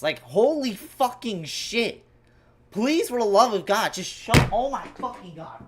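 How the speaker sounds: begging the cable to work; real irritation; exasperated. Real, not acted. Cable failing again.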